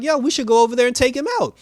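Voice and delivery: rally the team to go fight; eager call to action. Retold or imitated. Cyborg eagerly pushing the team to attack.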